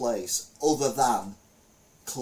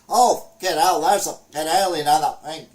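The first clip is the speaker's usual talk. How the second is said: loud and high, hammed-up panic shout; mock loud yell at the alien; loud gamer shouting; 6 semitones higher, 11 dB louder than usual. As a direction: yell it like a rowdy player who gives himself away. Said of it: "you know, it was all, you know, loud".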